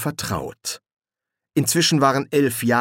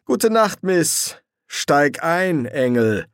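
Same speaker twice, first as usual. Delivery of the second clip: impatient; 7 semitones higher, 4 dB louder, slower than usual. Acted. Demon dismisses the woman and orders angel in, impatient. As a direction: hurry them along with raised voice.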